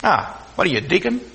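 mildly mocking question; lightly sneered imitation; imitated insult. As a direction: toss the title out like an insult. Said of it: "they say it like it's an insult".

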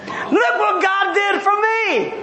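slow, self-satisfied relief; drawn-out pleased with himself; smug Jonah. Retold or imitated. Preacher voicing Jonah admiring the gourd, smug and slow. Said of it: "Jonah says".

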